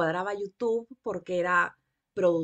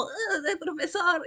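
lightly mocked classroom voice, pitched higher; a hint of teacher voice, higher and amused; 7 semitones higher, slower than usual. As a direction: mimic your own voice in class with a laugh. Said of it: "cuando escucho mi voz en la clase es como".

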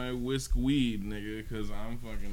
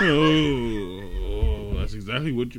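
laughing shout; 11 dB louder than usual. Real, not acted. Yelling crude joke laughing.

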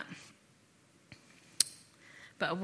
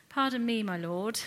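higher-pitched opening, politely British; 3 semitones higher than usual. Acted. Preacher imagining Gideon's reply to the angel, very British. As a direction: say it in a very British accent. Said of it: "saying that in a completely British accent".

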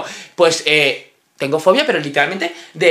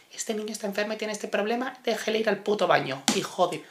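mock reading of mum's note; 2 semitones higher, 12 dB quieter than usual. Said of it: "un justificante de mi madre".

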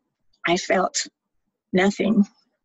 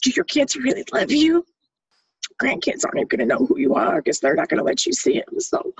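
mocking self-doubt pitched higher; taunting inner voice; 6 semitones higher than usual. Her inner voice taunting her before the pills, higher and mocking. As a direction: needle yourself in a higher voice. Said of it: "I'm arguing with myself, like".

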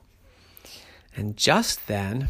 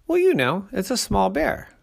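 high, excited little bear cub voice; a bright eager cub asking around; 10 semitones higher, 6 dB louder than usual. A narrator's reading.

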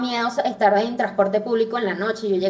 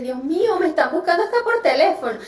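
higher-pitched mock fretting; retold nerves; 5 semitones higher than usual. Woman reacts to a call from an unknown number, mildly nervous. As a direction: relive a mild flush of nerves. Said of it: "yo entré en los nervios".

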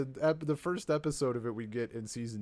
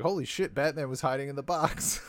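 retold amazement; 5 semitones higher, 4 dB louder than usual. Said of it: "I was just like".

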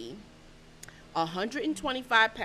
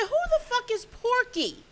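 mock disbelief; 12 semitones higher than usual. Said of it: "I said".

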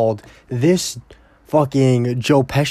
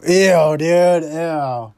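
higher, louder grossed-out ew; disgusted; 5 semitones higher, 4 dB louder, much slower than usual. Real, not acted. Reacting to his own joke, loud disgust. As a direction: recoil with a loud ew.

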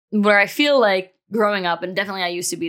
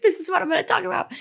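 retold crying; 12 semitones higher, faster than usual. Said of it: "bawling my eyes out".

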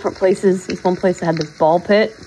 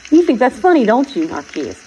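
playful mock-scolding, raised; teasing; 3 semitones higher than usual. Real, not acted. Teasing her pet Narquise, playful mock scolding. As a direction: tease "You think that's funny" like a mock-stern owner. Teasing the cat who laughs.

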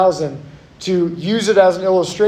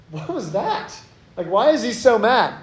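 hushed, higher-pitched puzzled reaction; acted bafflement; 4 semitones higher, 4 dB quieter than usual. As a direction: play a stunned onlooker, keeping it quiet. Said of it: "we were like".

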